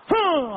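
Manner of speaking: long falling "mm"; mimicked hum. Comic showing the sound he made, exaggerated hum. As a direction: imitate his habitual drawn-out hum. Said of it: "hacía".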